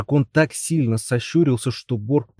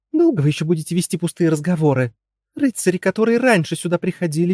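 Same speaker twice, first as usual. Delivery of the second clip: higher, fast, scolding princess; impatient princess; 7 semitones higher than usual. Acted. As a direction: nag him to fight, quick and high. Princess voiced by reader.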